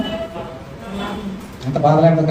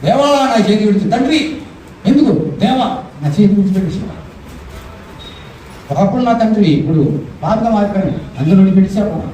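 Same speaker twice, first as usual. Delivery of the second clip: mildly acted tearful plea to God; ఏడుపు అభినయం; 4 semitones higher than usual. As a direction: lament in a raised voice, without real sobs. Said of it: "అని ఈయన ఏడుస్తున్నాడు". (కొంచెం ఏడుపు నటిస్తూ మొర)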